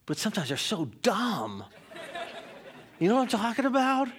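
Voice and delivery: laughing, going high and fast at the end. Real, not acted. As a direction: chuckle it out to the congregation. Preacher laughs about his kids.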